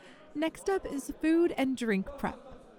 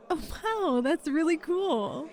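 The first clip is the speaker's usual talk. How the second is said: higher, drawn-out admiration; impressed delight; 4 semitones higher, slower than usual. Acted. Interviewer hears about applicant's hobby, impressed and delighted.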